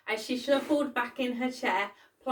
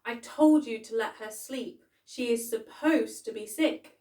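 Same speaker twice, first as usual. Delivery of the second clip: louder, spitting the words out; venomous; 2 semitones higher, 7 dB louder than usual. A narrator's reading. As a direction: bite each word with venom. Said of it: "she said with venom".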